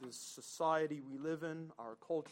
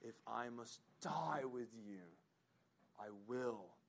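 hushed vow; 4 semitones lower, 6 dB quieter than usual. Acted. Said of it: "is an emphatic".

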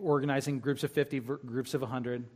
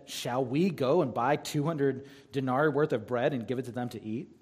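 a touch of sarcasm in the question; mildly sarcastic; 3 semitones lower than usual. Acted. Disciples answering Jesus's order to feed the crowd, mildly sarcastic. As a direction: read it as a lightly sarcastic comeback. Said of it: "you sense a little sarcasm there".

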